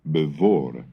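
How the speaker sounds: "bevor" said with a clear voiced V where modern English has F; voiced V sound. Shown as a demonstration. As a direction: voice the F as V in "bevor", be-VOR. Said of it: "and the word before becomes".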